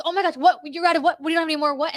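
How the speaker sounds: retold flustered bewilderment; imitating freaked-out girl. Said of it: "girl freaked out and goes".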